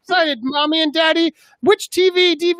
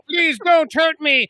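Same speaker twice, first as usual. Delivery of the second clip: mock pleading; 3 semitones higher, slower than usual. The innocent witch begs her attackers in a mock pleading cry. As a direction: beg for mercy in a hammy shout.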